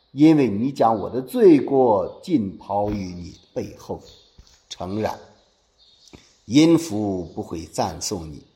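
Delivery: deliberate phrase-by-phrase declamation; scripture recitation. Acted. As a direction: recite it solemnly, drawing out the key words.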